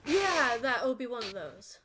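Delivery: loud, high troll shout; cheerful troll baker booming. Acted. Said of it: "That's my troll voice".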